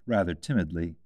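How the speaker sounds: ordinary delivery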